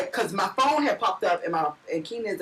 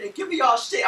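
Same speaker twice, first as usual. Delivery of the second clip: retold robber yell; 4 semitones higher than usual. Robber demanding purses at gunpoint.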